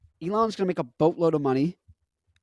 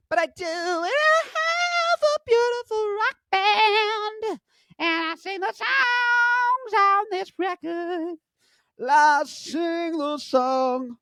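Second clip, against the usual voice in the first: much higher, slow, grandiose voice; mock rock star; much slower than usual. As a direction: ham up a pompous rock singer.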